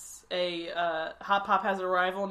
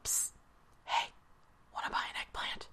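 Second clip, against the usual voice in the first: unvoiced secretive whisper; low evasive murmur; 10 dB quieter than usual. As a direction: hiss it like a shady dealer. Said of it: "He's like".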